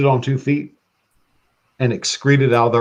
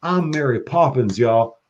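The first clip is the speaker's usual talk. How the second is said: put-on Southern accent; 2 semitones higher than usual. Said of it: "Southern accent".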